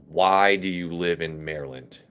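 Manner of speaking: a low, lightly drawled Southern Texan twang; Southern Texan accent. Retold or imitated. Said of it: "Everett's was more like".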